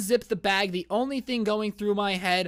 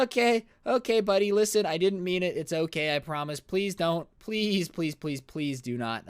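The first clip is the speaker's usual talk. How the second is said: mock nervous pleading. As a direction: act out backpedaling and begging. Begging hitchhiker not to harm him.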